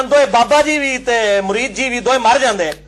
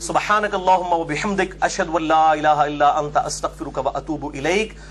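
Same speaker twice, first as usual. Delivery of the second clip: closing Arabic prayer; 4 semitones lower than usual. Real, not acted. Preacher closing the talk with a supplication, recited prayer.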